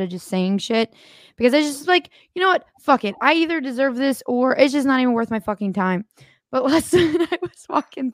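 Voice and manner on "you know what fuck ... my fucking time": mock exasperated rant, pitched up; fed up. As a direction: throw your hands up and say it louder. Acted fed-up inner voice.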